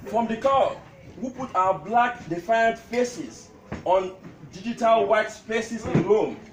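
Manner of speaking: measured recital, pausing between lines; comic tribute poem. Acted. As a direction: declaim witty verses to an amused crowd. Recites his poem to gathering.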